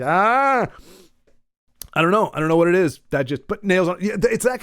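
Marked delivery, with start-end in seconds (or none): 0.0-0.7 wince. Shown as a demonstration. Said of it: "a fear of biting on a fork".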